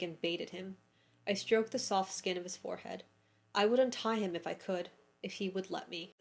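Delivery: quiet passage read to viewers; reading aloud. A narrator's reading. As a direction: read the passage gently, savouring it.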